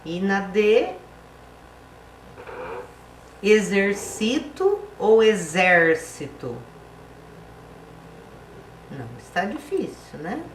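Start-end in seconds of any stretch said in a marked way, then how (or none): 3.4-6.6 "exercito" on CI, then "exército" on XÉR, slowly and louder; slow classroom contrast of "exercito" and "exército"; contrasting stress. Shown as a demonstration. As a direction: slowly set e-xer-CI-to against e-XÉR-ci-to. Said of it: "Quando a palavra é acentuada".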